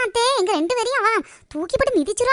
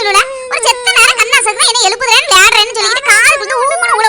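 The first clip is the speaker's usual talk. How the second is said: loud, aggrieved complaining to the aunt; loud angry complaint; 5 dB louder than usual. Acted. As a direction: vent the anger loudly. (அத்தையிடம் கோபமாகப் புகார் சொல்லுதல்)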